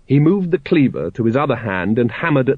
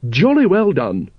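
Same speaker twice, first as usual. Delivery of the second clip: Lady Ramkin's voice; 6 semitones higher than usual. A narrator's reading. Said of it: "she said".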